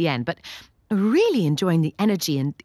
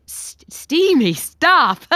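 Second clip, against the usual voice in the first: flustered; 9 semitones higher, 7 dB louder, much slower than usual. Real, not acted. Flustered reaction to steamy text.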